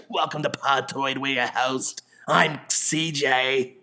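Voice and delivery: lightly croaky, slowed podcast welcome; a mild hint of the ruined voice; wrecked-voice host intro. Host jokes about opening the show with a wrecked voice, slowly. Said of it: "that'll be my voice for the rest of Podtoid".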